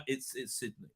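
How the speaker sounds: breathy hushed reveal; stunned whisper. Retold or imitated. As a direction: whisper it like a secret. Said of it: "turns to Picard and says".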